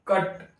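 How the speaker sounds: "कट" as one short syllable; one breath. Shown as a demonstration. Teacher checking with students that it comes out, "कट" in one go. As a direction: let "कट" out in a single short burst. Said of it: "निकल रहा है ना".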